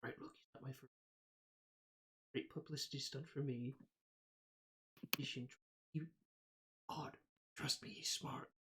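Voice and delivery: low, very soft private murmur; confiding aside. Acted. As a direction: lean in and confide, keeping it hushed. Trask leans in to confide privately.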